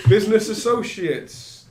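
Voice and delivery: repeating it through loud high laughter; mock the phrase while still laughing. Real, not acted. Game master echoing the player's excuse, laughing.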